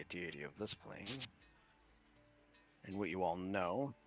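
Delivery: put-on measured, secretive old mage; Winston's voice. NPC Winston speaks.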